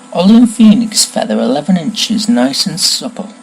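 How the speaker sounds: musing wand seller, slowing to savour each idea; lightly voiced Ollivander. Shopkeeper searches for a tricky customer's match, musing. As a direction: think aloud with growing intrigue.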